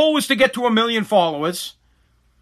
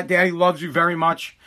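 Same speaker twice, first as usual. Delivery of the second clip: gentle, upset parent; 7 semitones lower, 7 dB quieter than usual. Real, not acted. Upset dad sending child upstairs, hushed and gentle. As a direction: hold back the anger, speak softly and low.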